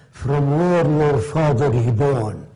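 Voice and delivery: slow, lightly mimicked Arab man's broken English; a hint of an Arab accent, slowed down; imitating broken English. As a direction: quote him slowly in his own broken English. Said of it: "That's the way he spoke".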